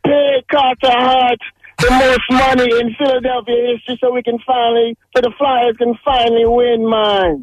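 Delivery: lightly put-on Jamaican accent; hint of a Jamaican lilt. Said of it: "I'll speak in my Jamaican, um, accent".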